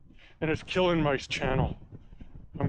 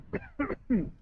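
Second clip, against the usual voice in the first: dry cough from windblown sand; 7 semitones higher, 3 dB quieter than usual. Real, not acted. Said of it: "Got sand all over my mouth".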